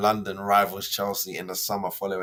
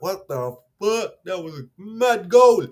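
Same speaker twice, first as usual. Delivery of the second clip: imitating excited fans; 7 semitones higher, 6 dB louder than usual. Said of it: "While everyone's like".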